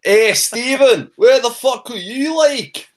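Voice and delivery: mock outrage at the missing friend; calling out. Real, not acted. Teasing Stephen about the dropped call, loud drawn-out shout.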